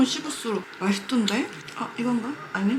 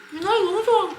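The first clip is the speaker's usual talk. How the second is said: delighted; 10 semitones higher than usual. Real, not acted. Delighted mukbang bite.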